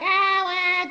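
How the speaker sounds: mock crybaby wail; mock whining. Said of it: "he was whining like".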